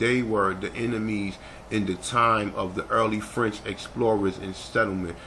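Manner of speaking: ordinary delivery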